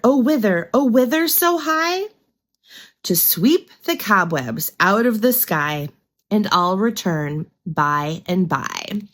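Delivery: sing-song rhyme recital; nursery rhyme reading. Shown as a demonstration. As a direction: read it like a Mother Goose rhyme. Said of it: "I'm gonna read it to you".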